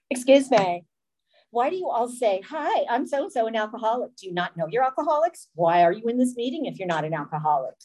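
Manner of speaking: acted-out challenge, quickening as it goes; replayed know-it-all objection; mock indignant. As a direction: heckle the room with pointed questions. Acts her confrontational heckling at meeting.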